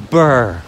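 loud, short "brr"; a burred shudder at the cold; cold shiver noise. Real, not acted. Walker reacting to thirty below, shivering brr.

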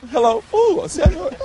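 high laughing squeal; breaking up laughing; anchor stifling giggles. Real, not acted. Anchor cracking up.

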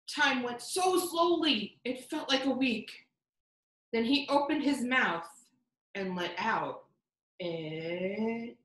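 slow suspenseful read-aloud; story narration. A narrator's reading. Reading the build-up to children, suspenseful. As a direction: hold the suspense before the twist.

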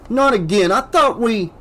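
exasperated. Acted. Kincaid dismayed, cut off.

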